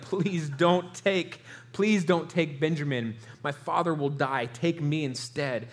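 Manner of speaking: mild imitated plea, drawn out at first; understated begging that sinks toward the end; retold pleading. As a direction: plead slowly, without raising the voice. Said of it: "Judah is literally pleading".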